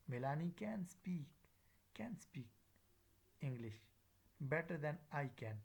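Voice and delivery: reduced "can" before "speak", full final "can"; weak then full "can". Shown as a demonstration. Teacher repeating the example, weak then full "can". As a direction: keep first "can" unstressed, say final "can" in full. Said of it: "The first can is the weak".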